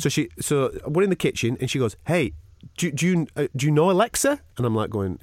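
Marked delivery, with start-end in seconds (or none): 2.1-4.4 higher, halting broken-English imitation; mimicked foreign-accented English question. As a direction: imitate a foreign host stumbling through English. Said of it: "a conversation in broken English".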